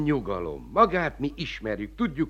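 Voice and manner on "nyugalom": "nyugalom" dropped low and much softer; "nyugalom" almost murmured, settling her; "nyugalom" repeated quietly, falling away. Acted. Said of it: "Csak nyugalom".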